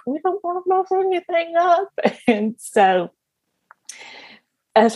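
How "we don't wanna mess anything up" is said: high-pitched mock fretting; high, worried squeak, acted out; imitated anxious parents. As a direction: voice nervous new parents, high. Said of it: "we're first time parents and we're like".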